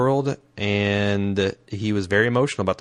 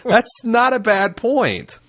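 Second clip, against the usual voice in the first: laughing agreement; 11 semitones higher, 3 dB louder, slower than usual. Real, not acted. Amused by the listener's letter.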